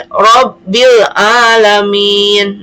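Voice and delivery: slow "Robbil Alamin" with the l of Robbil sounded clearly; clearly sounded lam. Shown as a demonstration. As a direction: recite "Robbil Alamin" slowly, stretching the long vowels and voicing the lam. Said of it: "ini Robbil dibacanya alif lam, eh, dibacanya jelas".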